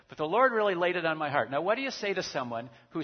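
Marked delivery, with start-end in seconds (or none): 0.1-1.5 mock pious claim. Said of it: "they don't say that".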